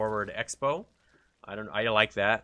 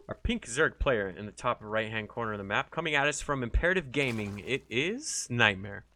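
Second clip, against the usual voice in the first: caster announcement. Acted. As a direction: build up to the player name. Caster introduces player.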